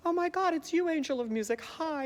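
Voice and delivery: high-pitched gasping greeting; mock-swooning, very high; starstruck gushing. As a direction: gush like a smitten girl. Acted Christine greeting the Phantom.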